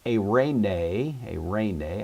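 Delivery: Eirene said ay-RAY-nay twice, middle syllable stressed, rising at the end; stress on penult. Shown as a demonstration. Teacher introducing the word for peace, Eirene accented on the penult, ay-RAY-nay. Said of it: "accent on the penult".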